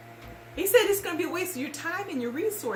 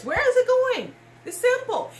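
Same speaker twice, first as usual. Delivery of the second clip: louder and higher, demanding an answer; indignant outburst; 6 semitones higher, 5 dB louder than usual. Real, not acted. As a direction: push hard on where the money went. Angry rant about charity money.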